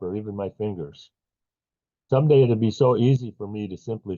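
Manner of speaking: measured poetry recital with long pauses; poem reading. Acted. Poet reading to a poetry-night audience, measured recital. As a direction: read the poem phrase by phrase, deliberately. Host reads own poem aloud.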